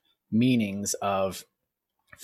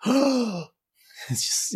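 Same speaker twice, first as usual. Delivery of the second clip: shocked local; 12 semitones higher than usual. Retold or imitated. Locals shocked by foreign word.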